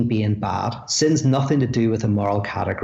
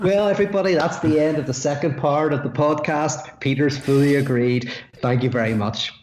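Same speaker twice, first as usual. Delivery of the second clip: hammed-up host voice, higher and brighter at the start; playful mock outro for the podcast audience; mock podcast host sign-off; 4 semitones higher than usual. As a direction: wrap up the show like a cheesy presenter, tongue in cheek. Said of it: "And then you go".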